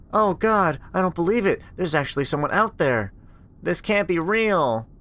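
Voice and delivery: barely believe the voice she hears; stunned disbelief. Acted. Rachel hearing her lost sister's voice, stunned.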